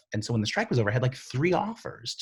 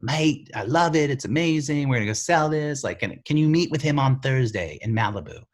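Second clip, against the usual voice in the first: Australian producer; 5 semitones higher, 5 dB louder than usual. Retold or imitated. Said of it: "who was Australian".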